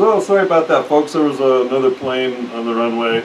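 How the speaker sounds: plain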